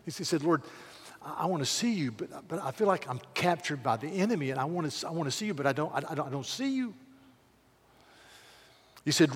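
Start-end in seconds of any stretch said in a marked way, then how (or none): 0.4-6.9 faltering prayer. Pretend. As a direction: stumble through the prayer.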